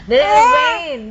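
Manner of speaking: keen questioning up high; eager coaxing. Real, not acted. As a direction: lift the question up high and bright. Coaxing child to tell story.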